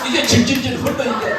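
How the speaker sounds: high, loud laughing telling; bursting with laughter mid-story; cracking up at the memory; laughing loudly. Real, not acted. Laughing at drooling elder.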